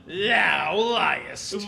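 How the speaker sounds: a short angry shout; angry accusation. Acted. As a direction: fling the charge at him. Servant accuses the tailor.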